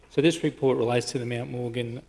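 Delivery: out of breath after a run; breathless from running upstairs. Real, not acted. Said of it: "Sorry, I'm just catching my breath".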